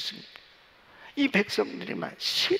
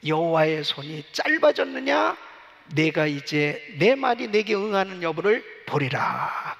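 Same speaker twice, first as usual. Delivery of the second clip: God's stern voice; 5 semitones lower than usual. Acted. God answers Moses.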